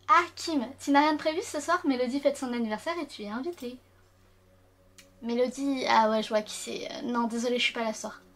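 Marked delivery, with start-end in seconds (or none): 0.1-3.8 raised, louder voice for a cheerful classmate; character voice. Acted. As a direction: perk up for the game character. Lit un personnage du jeu. (voix de personnage enjouée, plus aiguë)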